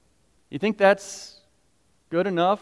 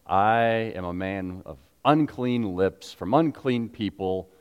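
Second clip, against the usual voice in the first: lament; slower than usual. Retold or imitated. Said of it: "Isaiah immediately goes".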